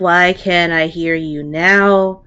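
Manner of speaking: the Minotaur groaning at the halfling, slowing on the last line; weary Minotaur. Acted. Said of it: "what you can assume to be the Minotaur".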